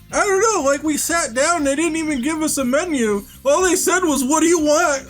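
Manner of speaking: high, whiny tourist voice, laughing through; imitating an upset tourist; mock complaining tourist. Mimicking tourists griping online, high and laughing. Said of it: "They were like".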